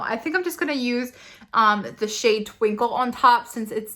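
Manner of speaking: ordinary talk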